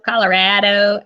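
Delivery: Colorado said with a broad open a, as in father: co-lo-RAH-do; Colorado, the locals' way. Shown as a demonstration. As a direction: stretch the Colorado "ra" wide and open. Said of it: "don't feel like I say it right".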